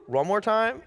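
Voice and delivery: high-pitched incredulous question; baffled disbelief. Retold or imitated. Exhausted son hearing dad's reproach, incredulous. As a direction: pitch it up as a stunned double take.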